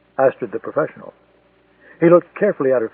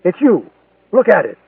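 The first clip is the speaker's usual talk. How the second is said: raised, louder shout of accusation; shouted demand; 4 semitones higher, 5 dB louder than usual. Acted. Stoltenberg yelling at Astrid in the car, insisting, loud. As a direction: hammer the photo at her, yelling. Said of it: "he screamed".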